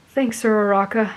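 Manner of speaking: mildly thankful; grateful. A narrator's reading. Boy thanks his friend for advice, mildly grateful. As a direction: thank a friend with understated gratitude. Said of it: "he said gratefully".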